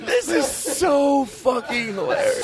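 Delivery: high, slow, laughing through it. Real, not acted. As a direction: lose it laughing. Host cracking up.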